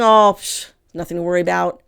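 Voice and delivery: mock brush-off, a loud scoff on psh; imitating a dismissive boomer, waving it off; scoffing dismissal. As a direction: scoff at the alarm like it's nothing. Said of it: "They're saying".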